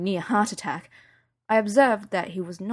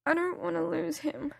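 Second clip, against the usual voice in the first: higher, softer, near tears; tearful; 9 semitones higher, 5 dB quieter than usual. Acted. Daughter confessing her fear to her mum, tearful. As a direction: hold back a sob. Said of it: "I sniffed and wiped at my eyes".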